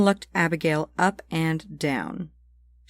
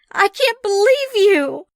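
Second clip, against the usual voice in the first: high, loud cry of outrage; angry outburst; 6 dB louder than usual. Acted. Sam bursts in with a gun, yelling.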